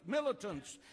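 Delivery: ordinary talk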